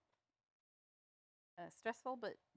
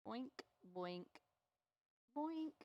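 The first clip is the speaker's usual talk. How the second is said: little springy "boink" noises, last one higher; playful boinks, spaced out, popping up at the end; boink sound effects; 3 semitones higher, 4 dB quieter, much slower than usual. Shown as a demonstration. Painting teacher adding sound effects to help memory, playful boinks. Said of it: "the sound effects".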